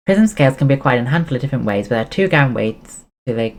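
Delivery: brisk read of a game guide; reading a guide aloud. Acted. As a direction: read it like a walkthrough script. Reads guide text aloud.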